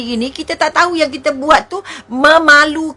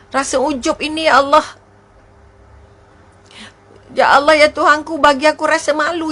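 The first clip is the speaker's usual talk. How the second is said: fervent pleading prayer to God; a preacher's heartfelt supplication. Acted. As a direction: beg God earnestly for humility. Leads a prayer of repentance.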